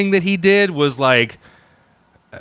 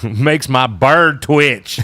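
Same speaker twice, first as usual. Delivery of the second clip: slow put-on catchphrase; much slower than usual.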